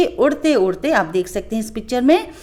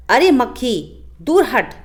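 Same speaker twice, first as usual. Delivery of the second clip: mild roar; 2 semitones higher than usual. Acted. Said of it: "उसने ज़ोर से दहाड़ लगाई".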